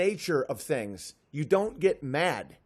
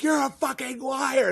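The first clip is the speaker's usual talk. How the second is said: angry shout; 6 semitones higher than usual. Acted. Angry person confronts the trickster.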